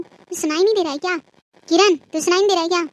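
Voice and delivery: mother shouting at the daughter who ignores her; annoyed calling. Acted. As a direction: demand she answer.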